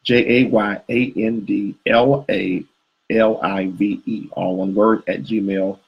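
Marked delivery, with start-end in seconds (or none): 0.0-4.3 "J A Y A N D L A" spelled letter by letter, slow; spelling it out slowly. Real, not acted. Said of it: "Jay and La Live".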